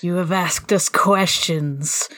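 slow secretive demon voice; demonic voice. Acted. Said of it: "I am apparently the one with the demonic voice".

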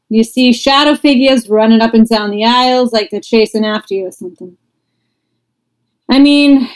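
casual Boston accent impression; Boston accent, lightly put on. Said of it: "In his thick Boston accent".

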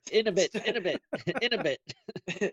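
imitating a fashion photographer. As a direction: teasingly imitate a bossy photographer. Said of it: "fashion photographer".

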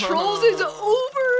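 gasping, slow mock shock. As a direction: gasp it out in fake horror.

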